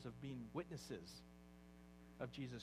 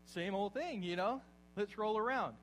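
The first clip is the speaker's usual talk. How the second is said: mock lazy pigs; 5 semitones higher, 7 dB louder than usual. Pigs voiced, louder.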